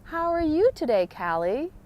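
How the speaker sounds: high, cheerful hello to a cashier; bright friendly greeting. Retold or imitated. Greeting the grocery cashier by name, cheerful and high. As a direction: greet her like an old friend, lifted and bright. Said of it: "I like to say".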